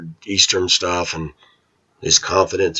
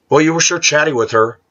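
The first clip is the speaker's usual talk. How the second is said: mock angry mother; 8 semitones higher than usual. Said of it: "my mother was angry".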